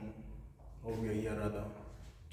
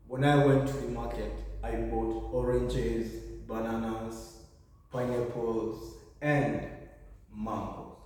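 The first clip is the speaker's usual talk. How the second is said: spaced-out list, "oranges, bananas, pineapples" held up, "mangoes" falling; slow the items and let "mangoes" drop at the end; listing intonation. Shown as a demonstration. Teacher demonstrates a market shopping list, listing intonation. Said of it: "it's going to be rising, rising all through, but at the end".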